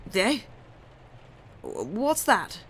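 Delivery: demanding lisping mumble. A narrator's reading. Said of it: "mumbled demandingly in a lisping voice".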